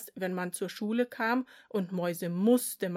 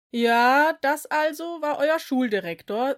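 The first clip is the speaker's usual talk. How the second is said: higher, louder friendly teacher; 6 semitones higher, 8 dB louder than usual. A narrator's reading. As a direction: address the class brightly. Teacher Rulz speaks.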